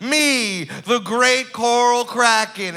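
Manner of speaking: slow, grand monster host; lightly voiced sea monster; kraken voice. Kraken boasting.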